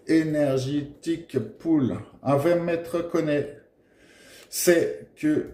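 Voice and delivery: slow English read with a heavy French accent; accent anglais à la française, lent. Shown as a demonstration. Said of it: "mon superbe accent anglais".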